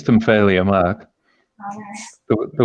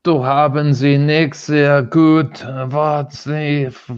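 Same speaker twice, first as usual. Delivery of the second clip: slow, slightly raised fake German accent; mock aggressive German; 4 semitones higher, slower than usual. Shown as a demonstration. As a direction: fumble through drawn-out pretend German. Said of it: "Really aggressive".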